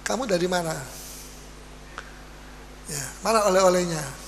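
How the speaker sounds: quiet restrained question; gentle question. Retold or imitated. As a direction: ask where the child has been without anger. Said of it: "Tapi kita sudah bisa marah".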